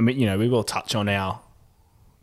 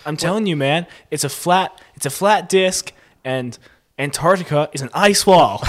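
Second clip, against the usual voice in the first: mock flat-earther, higher and insistent; Eddie Bravo; 6 semitones higher, 4 dB louder than usual. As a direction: imitate an earnest conspiracy believer, breaking into laughs. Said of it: "Oh, yeah, Eddie Bravo".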